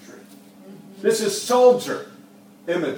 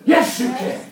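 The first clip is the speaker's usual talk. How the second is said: Jesus answering boldly. Retold or imitated. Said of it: "And Jesus says".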